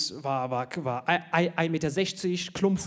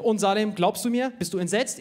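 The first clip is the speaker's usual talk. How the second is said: mock teacher; 4 semitones higher, 3 dB louder than usual. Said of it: "Der so".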